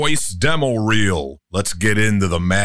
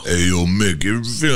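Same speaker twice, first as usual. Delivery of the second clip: Rocky Balboa; much faster than usual. Shown as a demonstration. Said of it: "Rocky Balboa".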